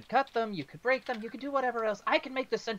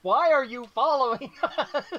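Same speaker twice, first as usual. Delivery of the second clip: raised voice; 5 semitones higher, 6 dB louder than usual. Acted. Player character questions captive.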